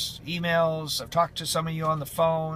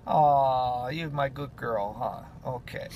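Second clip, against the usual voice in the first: tender praise; 4 semitones lower, slower than usual. Real, not acted. Owner praising her dog Lucy as a good girl, tender.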